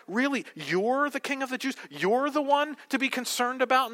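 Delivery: sceptical, belittling question; condescending Pilate. Acted. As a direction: talk down in mock disbelief. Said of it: "His condescending tone".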